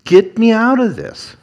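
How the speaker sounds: mock desperate plea to the Lord; desperate Moses, rising. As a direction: Moses begging, pitch soaring at the end. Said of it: "Moses is basically saying".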